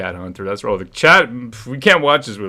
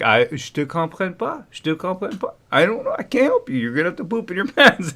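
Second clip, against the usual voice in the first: higher, mock dismissive teacher voice; stern teacher refusing; 6 semitones higher than usual. Teacher refusing to help the child, mock dismissive. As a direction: play the unhelpful teacher turning the kid away. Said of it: "She's like".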